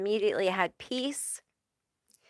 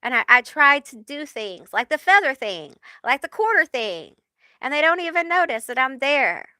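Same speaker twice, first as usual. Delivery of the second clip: lightly voiced Joe Pesci, higher and quick; a hint of Joe Pesci, higher; 4 semitones higher than usual. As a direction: play a wistful tough-guy angel. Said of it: "like Joe Pesci".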